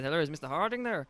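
lightly attempted Irish accent. Telemarketer phoning the house, lightly attempted Irish accent. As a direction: have a loose go at sounding Irish. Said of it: "I said with an Irish accent".

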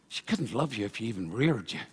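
a light Irish lilt; Irish accent. Retold or imitated. Pastor voicing a nagging mother, lightly Irish. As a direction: tip the line into a quick Irish accent. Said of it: "Oh, that was very Irish".

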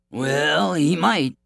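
wolf character voice. A narrator's reading. Wolf answers the prince's worry, lightly voiced.

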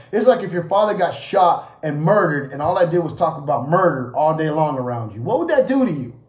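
loud, insistent rhetorical challenge; forceful preaching. Acted. Preacher challenging the congregation with harsh examples, forceful preaching. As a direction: press the hard comparison on the listeners.

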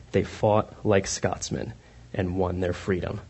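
slow, soft, solemn narration; lightly voiced epic movie narrator; Mel Gibson narration. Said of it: "the voice of Mel Gibson comes on to narrate this part".

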